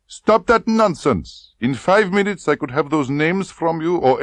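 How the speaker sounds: high, loud, domineering; menacing colonel. Acted. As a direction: threaten her coldly. Klebb threatens.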